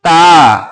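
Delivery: ता with the "aa" held long; drawn-out letter name. Shown as a demonstration. Teacher modelling the letter ta, drawn out. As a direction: stretch the vowel of ता. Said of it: "खींच के, कैसे?".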